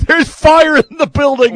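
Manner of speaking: high, loud, drawn-out PA call; laughing, high-pitched fake alarm; mock emergency announcer. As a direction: stretch out a comic fire announcement. Jokes as compound's PA announcer.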